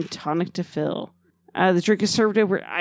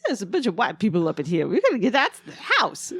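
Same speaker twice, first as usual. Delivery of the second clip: Eddie Murphy. Retold or imitated. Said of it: "That's Eddie Murphy".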